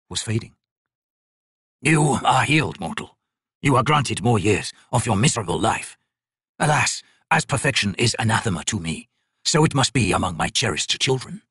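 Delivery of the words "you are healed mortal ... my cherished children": lightly voiced ancient god, slow and measured; a crippled god. Crippled god judging the painter's work, slow and cold. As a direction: speak down to the mortal like a bored deity.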